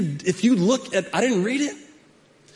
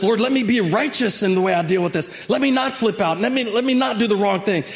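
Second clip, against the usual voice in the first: higher, pleading for self-control; earnest prayer; 5 semitones higher than usual. Retold or imitated. Pastor showing the congregation the righteous prayer, earnest and pleading. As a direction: ask God sincerely to keep you calm. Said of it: "In the middle of this".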